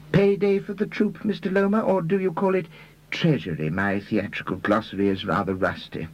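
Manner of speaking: high-pitched, politely needling gentleman; high, fussy-polite character voice; mild, quizzical Mr Reader. Acted. Voicing Mr Reader accosting Lomer.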